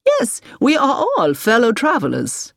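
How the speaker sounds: high, emphatic, eager agreement; keen and rousing, pitch well up; enthusiastic. A narrator's reading. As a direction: declare it with real zest. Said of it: "with enthusiasm".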